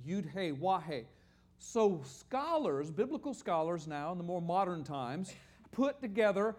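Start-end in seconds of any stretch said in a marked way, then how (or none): 0.1-1.0 "Yud He Wah He" as separate letter names; Hebrew letter names. Shown as a demonstration. Teacher explaining consonants without vowels, letter-name demonstration. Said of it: "you could not pronounce that".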